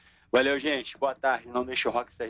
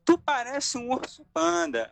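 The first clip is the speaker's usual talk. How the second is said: quoting a friend; 9 semitones higher than usual. Retold or imitated. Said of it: "me olhou e falou assim".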